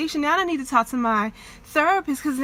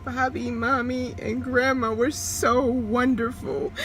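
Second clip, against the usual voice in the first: still crying. Real, not acted. Still crying naming family.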